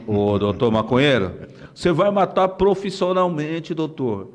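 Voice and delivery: slow, drawn-out drill sergeant voice; a lightly done tough police sergeant, slow; Sargento Cavalcante. Retold or imitated. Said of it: "começa a imitar o Sargento Cavalcante". (imitação lenta de sargento durão)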